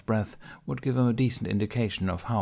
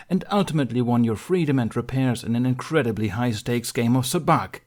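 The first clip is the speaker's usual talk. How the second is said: a stern council master, formal and pressing; stern Mace Windu; 4 semitones higher, 5 dB louder than usual. Acted. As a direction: read out the charges like a cold judge. Mace raises voice over Ben.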